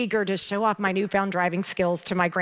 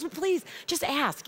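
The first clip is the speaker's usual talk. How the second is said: friend Kathy; 8 semitones higher, 3 dB quieter than usual. Retold or imitated. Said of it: "And she goes".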